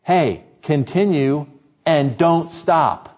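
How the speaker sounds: slow, deliberate plea; understated begging, word by word. Acted. The people beg Samuel to pray on, slow begging. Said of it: "now they beg him".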